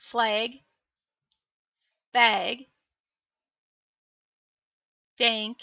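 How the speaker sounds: broad Minnesota vowels on each word; Minnesota accent. Shown as a demonstration. Streamer showing chat her Minnesota accent on single words. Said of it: "There's my Minnesota accent".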